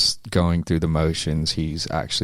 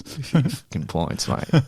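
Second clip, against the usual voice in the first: put-on higher-pitched, playful Aussie accent; Australian accent; 8 semitones higher than usual. Fighter echoing the host about pints, hammed-up Australian accent. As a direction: lay on the Australian "mate". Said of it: "Your Australian accent is just on point".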